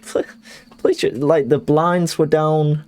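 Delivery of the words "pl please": whispered, pleading please; mock whisper plea. Caught in his pants by rugby lads, a whispered plea. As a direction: beg under the breath. Begging to put trousers on.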